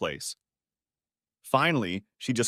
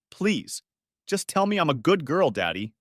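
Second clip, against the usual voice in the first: pleading; 6 semitones higher than usual. Acted. Daughter begging father, breaking down.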